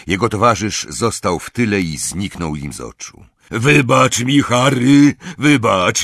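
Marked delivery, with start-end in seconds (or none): 3.5-6.0 loud, high-pitched pleading; distressed, raised-voice begging; moaned apology. A narrator's reading. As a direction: wail an apology over the noise. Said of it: "jęknął Hagrid".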